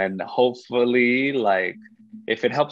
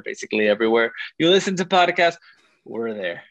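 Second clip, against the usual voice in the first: radio voice; faster than usual. Real, not acted. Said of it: "Your radio voice is coming out right there".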